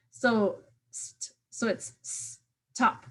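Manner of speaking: "stop" split after its first consonant sound; onset and rime split. Shown as a demonstration. Teacher showing onset and rime, word said in two parts. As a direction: hold the opening "st" apart, then finish "stop". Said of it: "into onset and rhyme".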